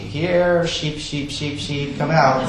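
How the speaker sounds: lightly voiced farmer's sheep call; father-in-law calling sheep. Father-in-law calls out the sheep before feeding, imitated sing-song call. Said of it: "he calls out the sheep".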